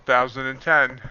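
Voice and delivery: talking with a mouthful of chicken; words pushed around a bite of food; mouth full. Real, not acted. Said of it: "Yes, I'm talking with my mouth full".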